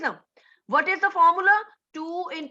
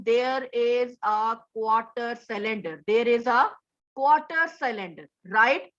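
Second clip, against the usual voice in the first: fuzz distortion; 3 semitones lower than usual. Real, not acted. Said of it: "Sorry for this distortion".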